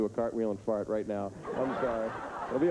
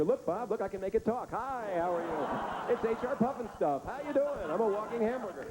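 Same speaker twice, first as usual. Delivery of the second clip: put-on high goofy doctor puppeting the baby; squeaky puppet voice for the doctor; high-pitched goofy ventriloquist doctor; high silly doctor voice; 10 semitones higher than usual. Doctor voiced playing with organs.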